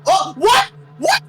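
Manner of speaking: high, loud disbelief; shocked. Real, not acted. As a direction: blurt it out in total shock. Shock at a sudden miss.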